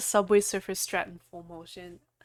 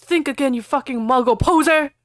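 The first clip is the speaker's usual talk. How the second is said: yelling; 4 semitones higher, 4 dB louder than usual. Acted. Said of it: "Harry yelled".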